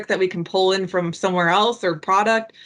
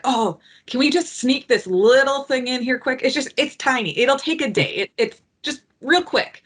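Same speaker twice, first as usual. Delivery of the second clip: higher, pleading mock voice, playing it down; wheedling product owner; 5 semitones higher than usual. Mocking a product owner begging for one small feature, higher and pleading. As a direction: coax like someone sneaking in a favour. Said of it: "So they're like".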